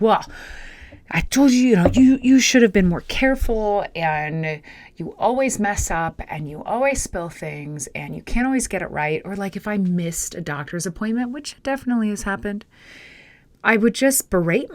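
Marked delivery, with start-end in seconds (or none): 0.0-9.2 harsh inner judge. Retold or imitated. Scolding herself over spilled water, a harsh inner judge. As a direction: berate yourself for a spill. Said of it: "I would have been like".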